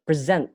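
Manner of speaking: "present" stressed on SENT; light "pre", then lean on "sent" in "present"; second-syllable stress. Shown as a demonstration. Teacher giving another example, "present" stressed on its second syllable. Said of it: "silabus kedua ya".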